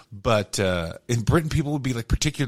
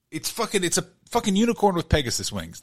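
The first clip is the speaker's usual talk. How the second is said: excited answer; 6 semitones higher than usual. Real, not acted. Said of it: "That is the answer".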